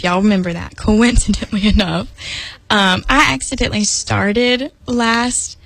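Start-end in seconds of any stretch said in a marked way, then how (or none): 0.8-2.1 "coincidentally" broken by a giggle; giggling. Real, not acted. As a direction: laugh in the middle of it. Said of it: "I'm just giggly tonight".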